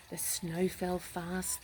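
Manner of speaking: slow, measured bedtime reading; slow narration. A narrator's reading. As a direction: let each word fall slowly.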